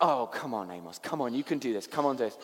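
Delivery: mildly exasperated coaxing; half-playful begging of a baby; coaxing plea. Retold or imitated. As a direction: urge the baby on, pleading a little. Pleading with baby in retold story.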